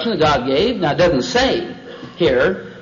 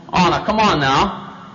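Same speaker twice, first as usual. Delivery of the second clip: slow, lightly teasing serpent; mildly wheedling persuasion; toying coaxing; slower than usual. Acted. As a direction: coax gently, stretching it out. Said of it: "He just kind of toyed with it".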